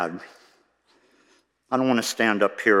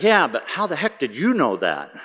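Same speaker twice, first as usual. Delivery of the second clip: high-pitched mock yell back; playful shouted comeback; 5 semitones higher than usual. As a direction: fire back a comic retort with big swoops in pitch. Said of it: "And I'd yell back".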